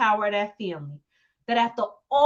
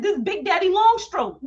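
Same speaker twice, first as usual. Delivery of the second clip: a hint of a cocky boast; boastful swagger; 6 semitones higher than usual. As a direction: announce yourself with swagger. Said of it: "hit her back and said".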